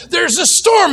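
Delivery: high, frantic alarm cry; panicked disciples. Acted. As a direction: wake him up in a panic. Frightened disciples wake Jesus.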